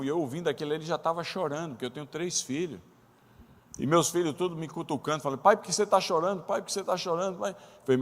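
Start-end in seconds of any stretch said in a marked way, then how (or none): 5.4-7.5 put-on high, pleading child voice, repeated; kids asking. Sons nudging their crying father, asking why, high and pleading. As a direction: mimic the kids tugging at dad.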